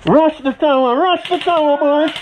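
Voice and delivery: loud rallying call; shouting orders. Real, not acted. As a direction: yell it to the troops. Calling troops to push.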